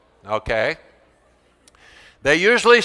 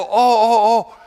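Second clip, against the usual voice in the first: higher, louder startled oh oh oh; mock alarm; 6 semitones higher, 5 dB louder than usual. Teacher pretending alarm at the poisoned classroom, hammed-up alarm. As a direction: react as if poison spilled. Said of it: "And I go like this".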